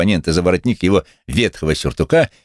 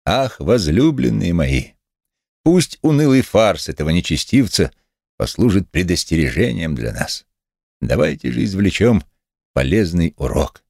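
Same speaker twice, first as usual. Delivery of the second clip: pulpit oratory; 2 semitones higher than usual. A narrator's reading. Methodist draws a lesson for onlookers, preaching. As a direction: preach it to the gathered flock. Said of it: "словно находился на кафедре".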